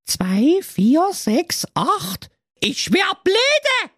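put-on high, pleading girl voice; whiny teenage daughter. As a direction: play the spoiled fairy-tale daughter wishing aloud. Daughter counts mice.

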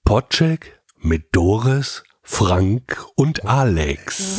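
very slow, carefully articulated; slow clear diction. Shown as a demonstration. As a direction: spell out every consonant slowly. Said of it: "wird die Aussprache wirklich besser".

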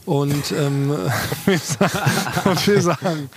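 tipsy, slurring the words; slurred speech. Real, not acted. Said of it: "entschuldigt bitte unsere leicht lallende Aussprache".

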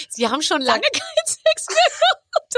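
high quote broken by laughter; imagining a stranger saying it, laughing. Retold or imitated. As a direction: giggle through the insult. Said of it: "kommt zu dir und sagt".

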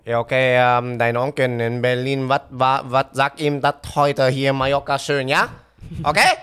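a hint of a bossy dad; imitating dad. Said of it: "dass mein Vater zu mir kommt".

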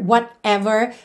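"whatever" as "what, ever"; split word. Shown as a demonstration. Teacher shows the singer's form, slight pause inside. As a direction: put a small break after "what" in "whatever". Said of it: "Ele aqui deu uma pausinha".

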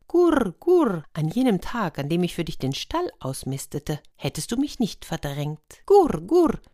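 a little hen dove reproaching her mate; cooing dove. Acted. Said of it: "rief das Taubenweibchen".

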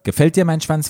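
high-pitched, lightly acted panting question; hint at panting as you ask; mild narrated panting. A narrator's reading. Lukas to patient in the story, mildly panting. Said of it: "fragte Lukas keuchend".

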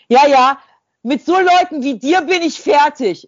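high, loud brush-off, done with her; loud dismissive shout. Retold or imitated. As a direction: shriek that you're finished with her. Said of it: "Was ist denn mit Ihnen".

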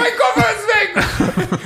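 slow, very high laughing shout; panicked yell. Retold or imitated. At the barrier, telling his friend the suitcase is gone, laughing high yell. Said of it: "Du standest an der Schranke so".

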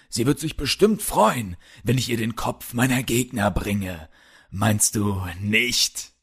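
softly voiced villain, lightly mocking; taunting villain. Polar bear leader toying with Kalle about Sarah, soft taunting. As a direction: taunt him softly, with understated menace.

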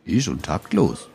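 slow, understated indignant question; a touch of offended disbelief. Acted. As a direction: answer slowly, mildly affronted. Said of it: "sagte Harry empört".

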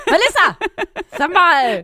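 loud shocked outburst; outraged surprise. Real, not acted. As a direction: exclaim it in disbelief, loud. Outraged at Melissa's lowball.

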